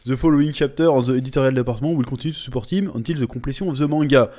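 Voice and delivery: fast English, heavy French accent. Shown as a demonstration. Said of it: "comment je parle mal anglais". (anglais rapide accent français)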